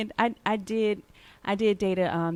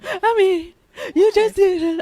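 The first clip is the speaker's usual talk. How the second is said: mock incredulous; 10 semitones higher, 8 dB louder, slower than usual. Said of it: "I'd be like".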